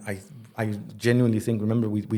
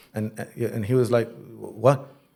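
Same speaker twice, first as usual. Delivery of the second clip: ordinary delivery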